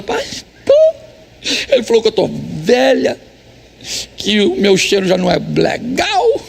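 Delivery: lightly voiced tearful wife. Pastor imitates a crying wife complaining of her husband. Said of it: "a mulher veio chorando pra mim e falou".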